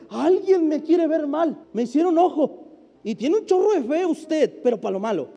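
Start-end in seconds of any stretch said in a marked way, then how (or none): 0.1-2.7 mock-superstitious whine with a laugh; hammed-up complaint of a curse; mocking quote. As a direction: poke fun at the believer's fear. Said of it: "y usted dice".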